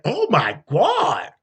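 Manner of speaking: slow, shocked oh my God; scandalized slow oh my God; pearl-clutching gasp. Retold or imitated. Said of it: "I'm holding my pearls".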